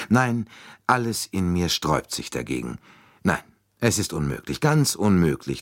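lightly voiced Poirot protesting; detective rejecting suspicion, emphatic. Detective firmly rejecting idea.

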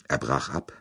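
plain reading voice

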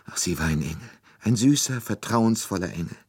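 high, loud, tearful lament; a nursemaid crying out her grief; weeping nurse. A narrator's reading. Nursemaid tells Poirot about the child, tearful and high. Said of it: "noch immer weinend".

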